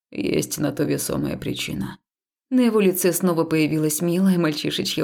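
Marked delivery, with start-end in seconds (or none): 0.1-2.0 lightly lower, softer, measured male voice; calm temple man. Acted. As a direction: reason with her gently. Haul's voice. (спокойный храмовник, чуть ниже и тише)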